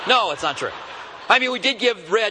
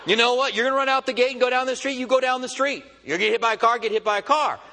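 higher-pitched, mock fed-up send-off; mock dismissal; 5 semitones higher, faster than usual. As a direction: wash your hands of the runaway dog. Fed-up owners give up on dog.

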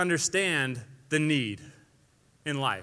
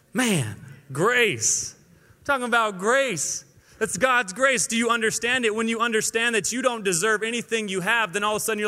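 fired-up preaching; 5 semitones higher than usual. Real, not acted. Preacher fired up about grace.

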